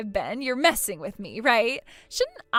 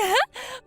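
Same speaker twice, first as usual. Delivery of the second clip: short high mocking laugh; spiteful little cackle; gloating laugh; 11 semitones higher than usual. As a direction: laugh in her face. Gloating over ruined dress.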